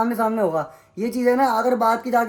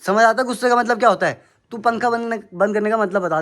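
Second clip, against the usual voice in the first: louder angry challenge; angry outburst; 4 dB louder than usual. Real, not acted. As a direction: fling the question at him in anger. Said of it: "गुस्सा आ रहा मेरे को". (गुस्से में ज़ोर से सवाल)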